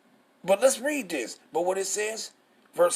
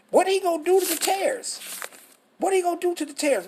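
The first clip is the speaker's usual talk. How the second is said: preaching shout; 11 semitones higher, faster than usual. Real, not acted. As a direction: fire the question at the crowd. Preacher demands answer from listeners.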